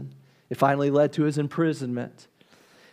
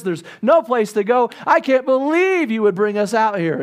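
loud, high, frantic griping at Moses; panicked complaint; 5 semitones higher, 4 dB louder than usual. Acted. Israelites panicking at Moses by the sea, loud and frantic. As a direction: whine that you'll all die out here.

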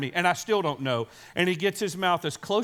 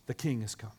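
hushed declaration; 8 semitones lower, 10 dB quieter than usual. Acted. Quiet climax of sermon.

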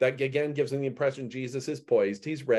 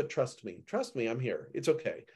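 gentle; 4 dB quieter than usual. Retold or imitated. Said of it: "it's a very gentle one".

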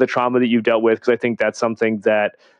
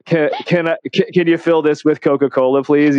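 tongue in cheek plea; 5 semitones higher than usual. Retold or imitated. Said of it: "tongue in cheek".

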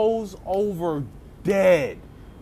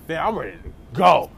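put-on whiny kid, done with it; lightly voiced fed-up child. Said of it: "They're just like".

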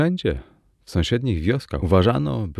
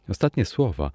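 plain reading voice

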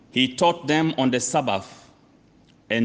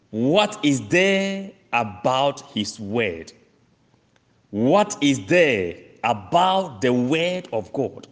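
slow, "there" and "what" pressed hard with falling ends; slow emphatic question; 4 semitones lower, slower than usual. Shown as a demonstration. Preacher asking the congregation slowly with emphasis. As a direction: let each word land slowly. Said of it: "This is my emphasis".

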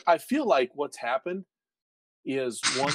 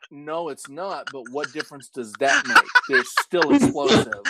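exasperated retort; 5 dB louder than usual. Retold or imitated. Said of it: "I said".

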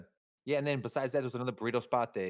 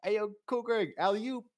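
mock-excited call, pitched higher; hyped-up caller; 12 semitones higher, 5 dB louder than usual. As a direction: play a hype man calling him in. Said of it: "It's not usually so much like".

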